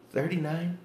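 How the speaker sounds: whispered scoff rising to a high laughing jeer; scoffing at the soldier's claimed age; mock disbelief. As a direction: call out the lie with a laugh. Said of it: "I'm like".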